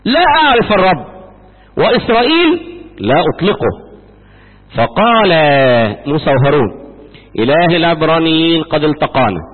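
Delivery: steady, formal reading of scripture. Acted. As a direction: read it out like a Bible lesson. Reads scripture. (قراءة رسمية من الكتاب المقدس بصوت ثابت)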